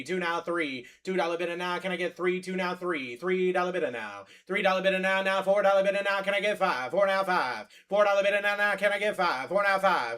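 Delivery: rapid rolling auction chant; auctioneer. Acted. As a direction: call bids like a livestock auctioneer. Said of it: "I gotta do the auctioneer".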